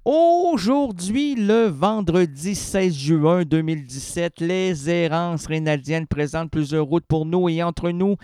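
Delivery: solemn radio host introduction; radio announcer. Acted. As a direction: present the show with ceremony.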